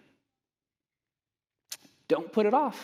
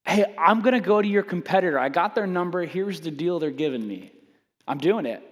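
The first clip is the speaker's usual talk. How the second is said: tough guy. Retold or imitated. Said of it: "I'm Mister Tough Guy, brass, assertive".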